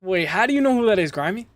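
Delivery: can't believe chat knows her; surprised disbelief. Real, not acted. Spots a viewer knowing someone.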